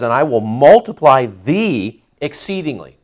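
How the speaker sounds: "thee" leaned on within the line; weight the word "thee"; stress on thee. Shown as a demonstration. Pastor pointing the church to the word "thee". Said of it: "Again, the emphasis on thee".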